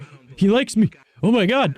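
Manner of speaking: very high, gushing squeal; giddy delight. Retold or imitated. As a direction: act out being thrilled that someone likes you. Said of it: "And I was like".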